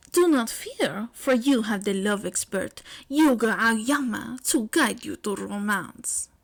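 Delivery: slow stretched Yuga Aoyama; lightly voiced grand self-introduction. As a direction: present yourself like a hero.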